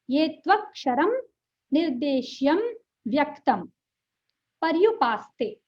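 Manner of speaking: ये त्वक्षरम, निर्देश्यम, व्यक्तं, पर्युपासते chopped apart with long pauses; mocking wrong reading. Teacher mocking a halting wrong recitation of the verse. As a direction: read each word separately, halting. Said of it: "अब ये क्या है भाई".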